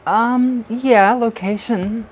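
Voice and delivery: eager burst as the guess lands; excited. Real, not acted. Excited guess during psychic reading.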